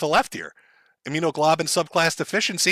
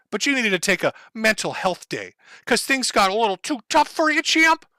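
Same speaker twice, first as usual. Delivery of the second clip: mock sympathy; 5 semitones higher than usual. Real, not acted. Mocking the critic who doubted him.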